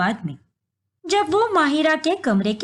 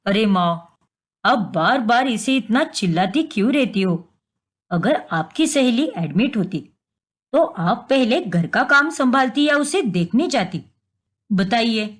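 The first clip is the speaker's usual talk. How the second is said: son's voice; 4 semitones lower than usual. Acted. Son argues with mother.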